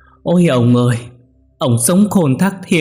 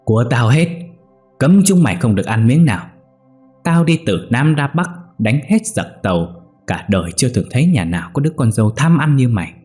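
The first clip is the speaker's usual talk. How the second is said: put-on angry old woman; 4 semitones higher than usual. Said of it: "nghiến răng kèn kẹt".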